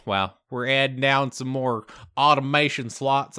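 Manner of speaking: drawn-out Southern US accent. Real, not acted. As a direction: slip into a slow Southern accent. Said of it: "hide my southern accent".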